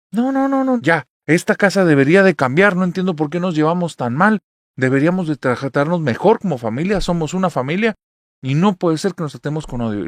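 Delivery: loud, high insistent plea; teen pleads with family to get along; heated pleading. Retold or imitated. (súplica acalorada de adolescente, fuerte y aguda)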